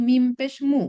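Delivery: মু said short and crisp, no stretching; quick unstretched মু; short vowel demo. Shown as a demonstration. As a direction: clip the vowel in মু right off. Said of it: "একটু টেনে বলছি না".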